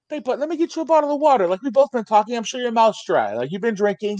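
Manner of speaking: fake nice. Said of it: "super condescending ... sounding super nice".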